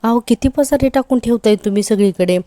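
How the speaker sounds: retold shouting. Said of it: "Sayali पुन्हा ओरडते".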